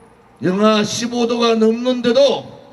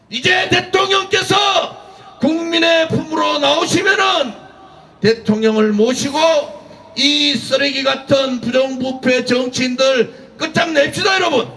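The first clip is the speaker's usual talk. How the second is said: rally shouting; 2 semitones higher than usual. Real, not acted. Rally speaker rouses crowd.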